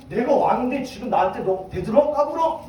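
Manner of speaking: mildly acted royal outburst; a touch of mock indignation; angry king. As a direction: scold a challenger, lightly hammed up. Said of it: "제사장한테 막 화를 냈어요".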